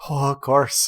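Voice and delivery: a snide "Oh, of course" at normal volume; sarcastic. Acted. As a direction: throw it out with mock agreement. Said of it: "And she goes".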